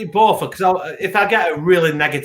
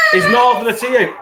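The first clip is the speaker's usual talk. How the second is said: loud protest; 5 semitones higher, 4 dB louder than usual. Real, not acted. Teasing protest across the table.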